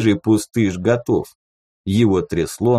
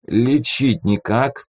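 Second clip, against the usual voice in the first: sluggish; 3 semitones higher, slower than usual. Acted. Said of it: "вяло спросил тот".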